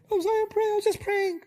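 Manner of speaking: a high, meek "I was just praying"; apologetic. Shown as a demonstration. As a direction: back down and apologize. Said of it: "'cause you're apologizing".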